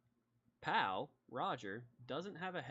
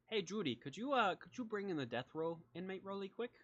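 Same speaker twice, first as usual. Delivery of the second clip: higher-pitched, friendly sheriff asking a favor; folksy sheriff calling out; 7 semitones higher than usual. Acted. Sheriff asking Judy to bring the inmate, folksy and high. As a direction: call to the back room in a raised pitch.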